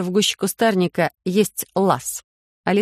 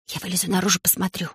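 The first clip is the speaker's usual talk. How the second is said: much softer, fading hush; whisper; 5 dB quieter, faster than usual. Acted. Rechka whispering to the friends in the pit, softly. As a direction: say it softly, barely voiced. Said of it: "Речка прошептала".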